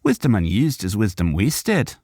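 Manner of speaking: nod sagely and speak wisdom; corrected sage Borgrim voice. Shown as a demonstration. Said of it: "Oh, wrong accent".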